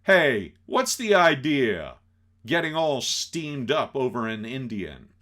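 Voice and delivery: loud jealous outburst; loud, annoyed challenge; upset boyfriend. Acted. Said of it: "he gets really upset now".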